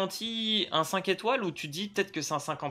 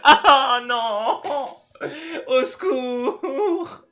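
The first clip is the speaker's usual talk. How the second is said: raging gamer; 7 semitones higher, 10 dB louder, much slower than usual. Real, not acted. Gacha pull goes wrong.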